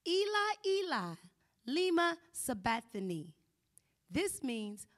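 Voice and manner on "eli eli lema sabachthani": a desperate call to heaven, high and loud; loud cry. Acted. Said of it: "cried out in a loud voice".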